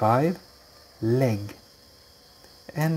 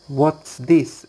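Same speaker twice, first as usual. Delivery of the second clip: louder "What's this?" falling; demo question; 3 semitones higher, 5 dB louder than usual. Shown as a demonstration. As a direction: ask "What's this?" clearly. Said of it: "I will demonstrate".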